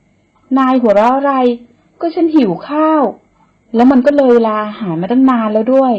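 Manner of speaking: indignant retort. Acted. Woman snaps at the man laughing at her hungry stomach. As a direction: defend yourself, embarrassed.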